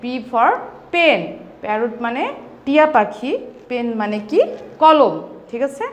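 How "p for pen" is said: very slow, every word drawn out for pupils to repeat; teacher modelling a phrase slowly for children; slow model phrase. Shown as a demonstration. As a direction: say it slowly so the class can follow. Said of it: "আমার সাথে সাথে বলো তো".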